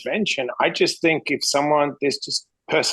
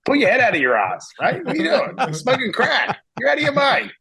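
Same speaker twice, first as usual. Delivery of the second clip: blunt dad to son; 2 semitones higher than usual. Retold or imitated. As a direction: push him hard to shape up, building up. Tough talk to son.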